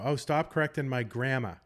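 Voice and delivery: put-on Boston accent with "grammar" ending in "gramma"; lightly acted Bostonian protest, R dropped from grammar. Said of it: "self-conscious about their Boston accent".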